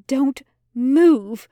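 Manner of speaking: sharp, loud command; shout. A narrator's reading. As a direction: bark the order at the demon. Aziraphale threatens with sword.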